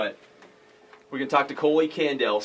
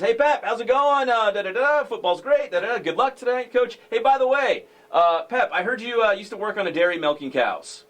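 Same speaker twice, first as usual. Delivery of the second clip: put-on Southern accent; 7 semitones higher than usual. Host imitating Coach Broach in a Southern accent. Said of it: "you always have this Southern accent".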